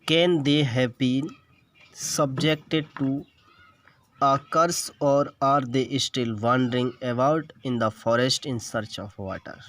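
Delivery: slow, word-by-word English reading; textbook read-aloud. Shown as a demonstration. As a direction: read the passage out deliberately for a class.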